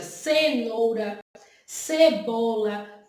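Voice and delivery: slow, stretched words stressing the opening S sound; teacher stretching "cenoura, cebola" to show the S sound; drawn-out syllables. Shown as a demonstration. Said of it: "tem o som de S".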